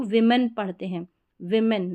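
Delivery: विमेन with short i in the first syllable; correct pronunciation. Shown as a demonstration. Teacher showing O read as i, careful विमेन. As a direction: say विमेन as "WIM-en". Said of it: "correct pronunciation".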